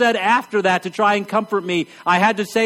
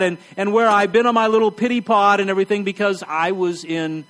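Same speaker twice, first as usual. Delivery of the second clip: confession. Retold or imitated. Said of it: "admit to yourself".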